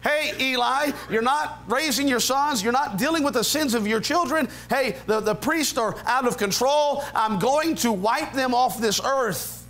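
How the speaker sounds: high, insistent warning to Eli; lightly voiced stern God rebuking the priest; God's rebuke. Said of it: "God told them why".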